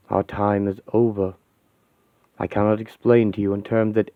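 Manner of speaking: a grave android admitting defeat; solemn machine confession. Acted. Vision tells the Avengers their time is over, quiet and grave.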